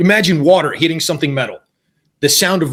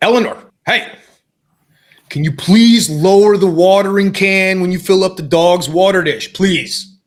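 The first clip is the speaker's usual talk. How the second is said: mock-barked, sharp barking delivery; 2 semitones higher than usual. Speaker re-enacts what they snapped at Eleanor, retelling a barked request. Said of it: "And I barked".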